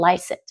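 "lights it" blended, lightly and softly; "lights it" with s carried into "it"; linked sounds. Shown as a demonstration. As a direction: say "lights it" as one word, like "light-sit". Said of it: "nghe sẽ thành lights it".

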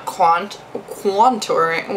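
accidental Boston accent. Real, not acted. Vlogger stumbling over cream contouring, Boston accent. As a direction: slip into a slow, drawn-out Boston accent. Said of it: "a Boston accent".

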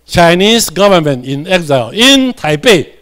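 each word read slowly and clearly for the class; teacher reading the phrase slowly to students; slow read-aloud. Shown as a demonstration. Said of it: "这里做伙来读者".

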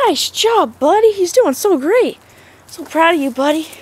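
high squeaky dog praise; squeaky praising a dog. Real, not acted. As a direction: gush over the dog.

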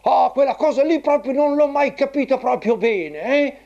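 put-on high squeaky old grandpa puppet; squeaky shrill puppet voice.

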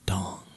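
a single ringing "dong"; imitated clock chime. A narrator's reading. Clock striking midnight at the ball, imitated chime. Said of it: "went the clock".

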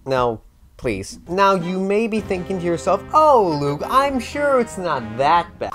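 normal talking voice

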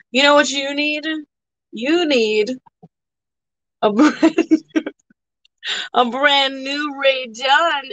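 teasing salesperson voice; mock sales pitch. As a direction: hype it up as a joke. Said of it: "I'm just fucking with you".

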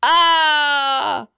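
slow, rising into a high cry; pained outburst cut short; alarmed cry. A narrator's reading. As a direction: start startled, break off into a scream. Man attacked in the water.

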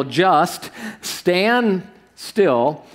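stretched very slowly, ending in a rise. Shown as a demonstration. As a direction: let it hang, almost pleading. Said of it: "It says this".

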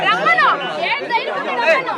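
loud, high challenge; defiant shout. Real, not acted. Protester daring the opponents to approach, defiant shout. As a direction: dare them to come, shouting.

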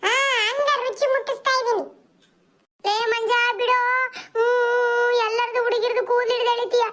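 put-on squabbling kids. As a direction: play kids trading insults and pulling hair. Kids quarrel continues.

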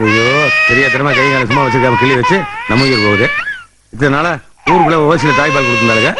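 half-crying, hammed-up grief; mock wailing lament. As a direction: wail like a despairing old man. Grandfather wails over crying baby. (அழுகையுடன் புலம்பல்)

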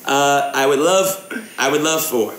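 brisk haggler's fake English accent; put-on English accent. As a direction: wheel and deal in a mock English accent. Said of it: "gaming in an English accent".

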